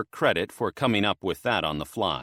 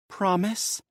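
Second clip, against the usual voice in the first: much higher eager demand; 10 semitones higher than usual. A narrator's reading. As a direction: press him for a promise. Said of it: "she demanded through the link".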